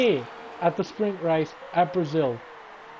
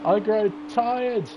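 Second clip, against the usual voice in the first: tired; 4 semitones higher, much slower than usual. Real, not acted. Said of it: "I am very sleepy".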